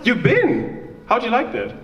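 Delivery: ordinary talk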